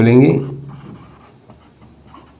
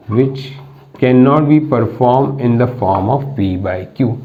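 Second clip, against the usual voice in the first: reads the definition out word by word, very slow; slow dictating teacher; slow dictation; much slower than usual. Shown as a demonstration. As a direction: dictate it so students can write.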